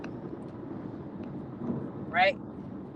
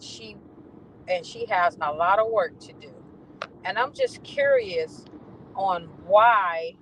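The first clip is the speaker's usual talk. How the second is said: mock bossy tone; slower than usual. Quoting the supervisor's email.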